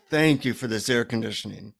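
understated, heartfelt gratitude; sincere thanks. Retold or imitated. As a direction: give a simple thank you to the universe, sincerely. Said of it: "I say a sincere thank you to the universe".

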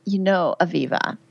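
imitating a Southern client's Georgia accent; retold line in a Georgia accent; heavy Georgia accent. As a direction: lay on a mock Georgia twang. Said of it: "in this heavy Georgia accent".

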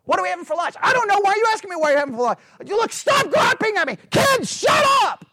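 high, loud, escalating car bickering; mock family quarrel. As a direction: act out a family snapping at each other in the car.

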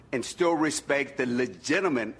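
legitimate leaned on firmly; stress on legitimate. Shown as a demonstration. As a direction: give the word legitimate extra weight. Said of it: "I emphasize the word legitimate".

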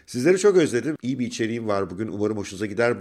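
stuffy nasal voice from flu; blocked nose. Real, not acted. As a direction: talk through a blocked nose. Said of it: "Burnum tıkalı".

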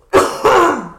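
sudden choking cough. Real, not acted. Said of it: "choking on my green smoothie here".

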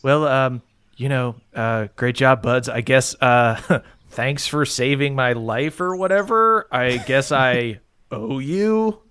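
gruff rescued fighter mumbling grudging thanks; grudging sarcasm. Acted. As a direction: brush off the thanks as if it costs nothing. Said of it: "you're framing it with sarcasm".

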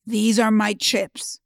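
boss's slow put-down ending in a loud bark; mock stern boss scolding a young employee; dismissive boss. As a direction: lecture her slowly, then hammer the last line. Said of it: "And he said".

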